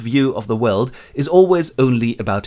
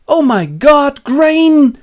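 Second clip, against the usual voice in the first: high, loud, overjoyed cry; ecstatic discovery; 10 dB louder, much slower than usual. Acted. Robinson finding his grain has grown, high joyful shout. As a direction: shout it like a miracle.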